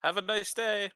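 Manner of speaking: put-on loud broken-accent shout; broken Dwarvish shout. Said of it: "I shout out in Dwarvish, kind of broken".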